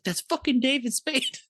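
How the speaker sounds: high, drawn-out cry of recognition; amazed exclamation. Retold or imitated. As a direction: exclaim it slowly, like a star sighting. Retelling his amazed realization of who.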